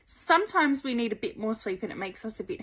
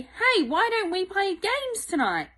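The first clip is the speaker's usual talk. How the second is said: eager invitation; 9 semitones higher than usual. Pretend. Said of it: "Or you can say to".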